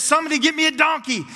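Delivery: high, loud, quick call for a donkey; voicing Jesus's demand. Jesus sending for a donkey before entering Jerusalem, calling out briskly. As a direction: call out an urgent, excited order. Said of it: "and he says".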